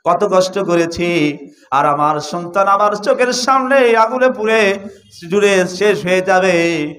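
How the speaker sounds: slow mock wail with stretched endings; retold tearful plea. Mother pleads with the Prophet for her son, mildly acted lament. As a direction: plead slowly, acting a grieving mother without real sobs. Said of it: "চিৎকার দিয়ে কেঁদে বলেন".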